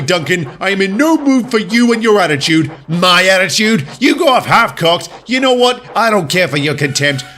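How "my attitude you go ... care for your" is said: indignant retort. Acted. Heated argument with Duncan.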